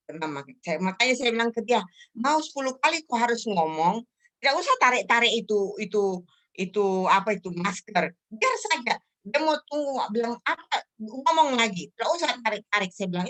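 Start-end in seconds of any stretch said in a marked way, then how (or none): 2.2-12.9 raised-pitch, insistent telling-off; retold scolding. Telling him to leave his mask alone, insistent scolding. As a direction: scold firmly, as if retelling it.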